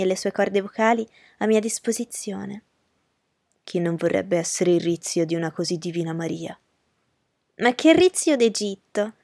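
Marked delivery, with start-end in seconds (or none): 3.6-6.6 a lower, courteous gentleman's voice; Rochester's voice. Acted. Rochester politely agreeing with Miss Ingram, in a lower gentleman's voice. 7.6-9.1 a slow, lightly exclaimed scoff; mild exclamation. Acted. Miss Ingram scoffing at Rochester, in a mild exclamation. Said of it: "Esclamò lei".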